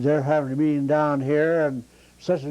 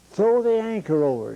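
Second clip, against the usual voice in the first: pitched-up, excited order from the captain; excited captain yell; 7 semitones higher than usual. Retold or imitated. Showboat captain yelling at the deckhand in a storm, excited and pitched up. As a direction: bark it out like a flustered skipper. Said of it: "And he got excited and says".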